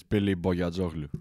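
name said with a Greek accent. Shown as a demonstration. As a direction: give the surname its Greek pronunciation. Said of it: "that's with a Greek accent".

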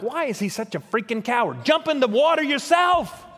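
mock exasperation building to a high shout; preacher scoffing at a coward; exasperated. Preacher mocking Jonah as a coward, in rising exasperation. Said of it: "I'm like".

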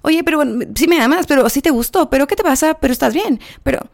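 high, needy nagging voice; whiny girlfriend voice. Retold or imitated. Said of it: "esta fue la personalidad de Chelsea".

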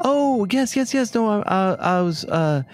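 stammer, caught off guard; flustered character. Acted.

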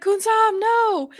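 high, loud mock wail of protest; upset protest. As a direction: cry out at her, mock upset. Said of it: "super upset".

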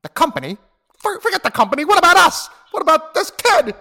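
high, loud cartoon monster; squeaky frantic little monster; Mike Wazowski voice. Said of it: "give me Mike Wazowski".

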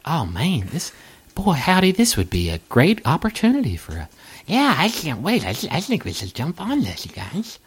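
keen little party voices, lightly done; a hint of eager table whispers; eager adventurers. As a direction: chatter excitedly among yourselves. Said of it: "your voice acting is sublime".

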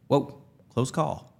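slow, drawn-out relief; relieved joke. Retold or imitated. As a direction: stretch it out, smug relief. Joking relief at dodging shock.

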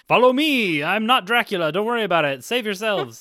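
rally everyone like a would-be rescuer; mock heroic rallying. Freya leading everyone to safety, mock heroic rallying. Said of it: "now you're saving everyone like".

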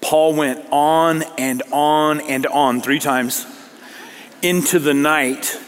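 slow, droning stretch on the repeats; drawn-out recital. Retold or imitated. Preacher mocking Paul's long sermon, drawn-out recital. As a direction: drag it out to sound endless. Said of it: "this is how Luke records it".

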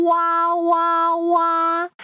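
stylized "wah" cry on a held note; pretend crying. Teacher voices the little piggy crying home, pretend wail. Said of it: "the little one is not crying".

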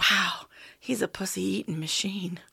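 hushed, impressed whisper. Retold or imitated. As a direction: whisper it in awe. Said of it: "she said afterwards".

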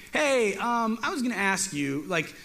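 a hint of a whining coward asking questions; whiny Gideon. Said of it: "Gideon is right away is like".

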